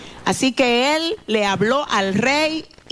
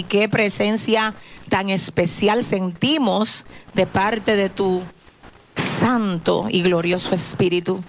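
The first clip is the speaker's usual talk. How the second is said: prayer; 2 semitones lower than usual. Real, not acted. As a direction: speak tenderly to God, reverent. Pastor prays to God.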